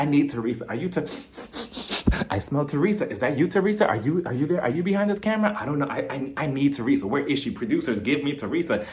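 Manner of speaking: hammed-up desperate sniffing around for someone; mock obsessed. Margaret hunts for Teresa on set, mock obsessed craving. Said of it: "she is foaming at the mouth".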